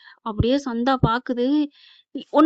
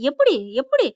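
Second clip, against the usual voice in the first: mild mock yell, pitched up; retold angry shouting; 4 semitones higher than usual. Groom's side hearing the refusal, mild acted outrage. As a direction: demand answers indignantly, at storytelling strength. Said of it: "கத்துறாங்க".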